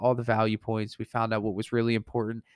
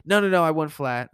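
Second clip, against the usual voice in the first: higher, mock insistent customer; insistent refusal; 4 semitones higher, 4 dB louder than usual. Customer turning down the painter's satin suggestion, insistent. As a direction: cut off the suggestion, acting out a firm customer.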